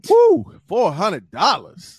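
high whoop then slow stunned repeat; shocked. Real, not acted. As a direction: react to the price. Shocked at price.

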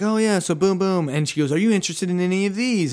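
a hint of a high quick pitch; breezy saleswoman. Saleswoman hurrying through her spiel, lightly breezy. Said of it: "she's like".

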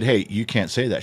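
understated, straight-faced warning; mock-serious deadpan. Teller warning a friend's wife at the table, deadpan. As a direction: deliver it dead seriously, quietly. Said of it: "Oh, it was deadpan".

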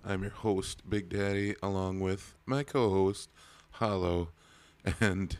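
rough, worn-out voice; hoarse from yelling. Real, not acted. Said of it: "If you can't tell, my voice is a little shot".

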